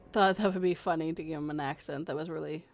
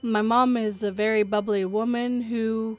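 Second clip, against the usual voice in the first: measured read-aloud storytelling; narrating a written true story; story narration; 3 dB louder than usual. A narrator's reading. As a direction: read the account out clearly and evenly. Reads a listener story aloud.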